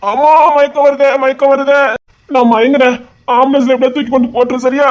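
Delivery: hammed-up swooning wail; mock fainting. Man pretends to faint before colleague, hammed-up. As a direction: overplay the faint.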